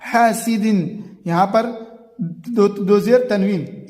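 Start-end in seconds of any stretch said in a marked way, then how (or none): 0.0-1.0 slow, clear tanween; slow clear reading of हासिदिन; izhar recitation. Shown as a demonstration. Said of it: "तनवीन के बाद हमजा है".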